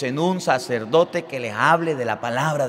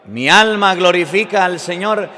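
louder, rejoicing scripture quote; retold exultant praise; joyful, moved; 5 dB louder than usual. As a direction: proclaim it with acted joy. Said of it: "se llena de alegría".

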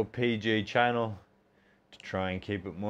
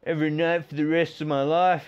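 mock party kid; 4 semitones higher than usual. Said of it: "all you kids watching, thinking".

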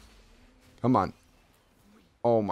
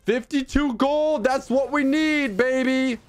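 excited; 12 semitones higher than usual. Real, not acted. Streamer hyped at gold count.

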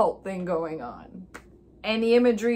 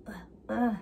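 soft imitated "ugh" grunts; 6 dB quieter than usual. Imitating masked dancers around the girl, soft grunts. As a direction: lightly mimic wordless grunts. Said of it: "they just kinda go".

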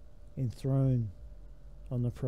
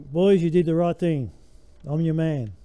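mock Jesus praise; 3 semitones higher, 6 dB louder than usual. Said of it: "No, he didn't say that".

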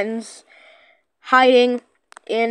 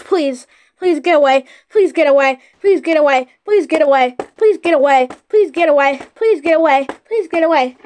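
being chased. Real, not acted. She is chasing me.

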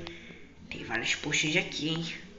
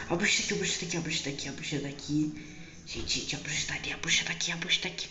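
hushed alarm; 5 dB quieter, faster than usual. Acted. Spotting the witch, hiding.

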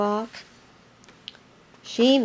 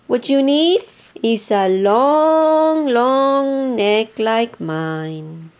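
slow giraffe voice; 4 dB louder, much slower than usual. Acted. Giraffe boasts of her neck.

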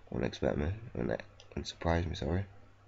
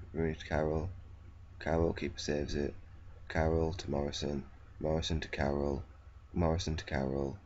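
monotone commentary. Acted. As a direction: call the passes like a bored commentator. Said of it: "This is what happens when I commentate".

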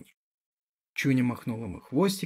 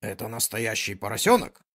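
louder, indignant scolding; indignant dog; 6 dB louder than usual. Acted. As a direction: scold the messy puppy indignantly. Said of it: "возмущалась собака".

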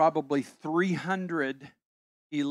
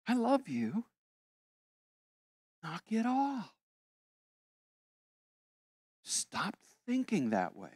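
voicing God; 4 semitones higher, 6 dB quieter than usual. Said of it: "and say".

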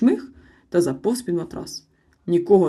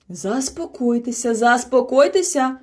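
soothing; 6 semitones higher, 5 dB louder, slower than usual. A narrator's reading. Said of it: "вгамовувала товариство мама".

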